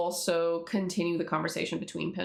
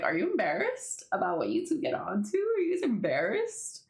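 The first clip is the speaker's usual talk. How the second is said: teasing Pim; 6 semitones higher than usual. Retold or imitated. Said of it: "So Pim's like".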